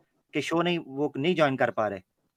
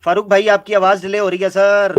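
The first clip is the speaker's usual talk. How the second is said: calling out; 4 semitones higher, 8 dB louder than usual. Real, not acted. Calling out to a lagging caller.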